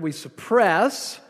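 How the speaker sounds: suppress said slowly, syllables drawn out; stress on suppress. Shown as a demonstration. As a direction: lean slowly and hard on suppress. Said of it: "that's the word".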